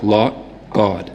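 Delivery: slightly lip-rounded Boston vowel; Boston "aw" in each word; Boston accent. Shown as a demonstration. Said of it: "lip rounded in a Boston accent".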